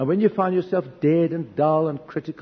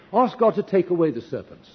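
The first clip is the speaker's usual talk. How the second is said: higher, louder quoted plea; raised-voice repeat of someone's request; emphatic repeat; 4 semitones higher, 5 dB louder than usual. Retold or imitated. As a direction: throw the plea back out emphatically.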